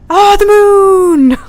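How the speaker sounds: high, loud, slow gasp of wonder; drawn out in real awe at the sky; awed delight. Real, not acted. Looking up, sees the moon.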